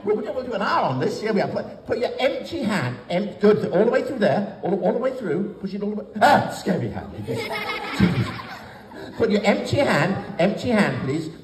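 put-on lively children's entertainer patter; bright magic show host; kids party magician.

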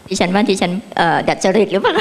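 chuckling through a playful jab; giggly teasing question; teasing laugh. Real, not acted. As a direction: say it while laughing at him. Teasing the speaker about his accent.

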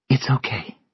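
high, very soft reassurance; hushed, high-voiced comfort; whispered. A narrator's reading. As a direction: whisper it gently to console. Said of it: "Sylvia whispered".

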